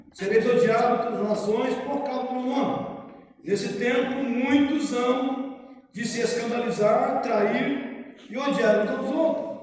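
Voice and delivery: solemn, measured Bible reading; scripture reading. Acted. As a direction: read the Gospel aloud to the congregation. Reads Gospel passage aloud.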